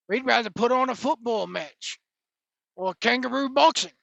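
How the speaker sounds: half-hearted mock Australian accent; horrible Australian accent. Podcaster voices locals preferring football, bad Australian accent. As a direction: play an Australian local, badly. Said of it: "it's my horrible Australian accent".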